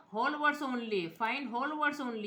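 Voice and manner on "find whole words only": slow, deliberate reading. Shown as a demonstration. Teacher showing students the option, very slowly. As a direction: read the menu option out very slowly. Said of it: "ये वाला मैंने on कर दिया है".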